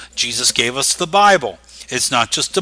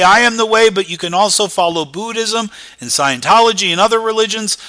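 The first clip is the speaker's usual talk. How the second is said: mock quote; 5 semitones higher, faster than usual. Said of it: "He didn't say".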